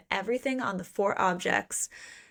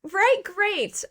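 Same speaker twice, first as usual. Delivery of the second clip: sarcastic; 12 semitones higher, 3 dB louder than usual. Real, not acted. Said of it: "sarcastic great".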